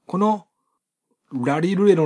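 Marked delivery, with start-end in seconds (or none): 1.3-2.0 muddy the R of "ラリルレロ" toward D; voiced, muddied R. Shown as a demonstration. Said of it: "ラリルレロの点々".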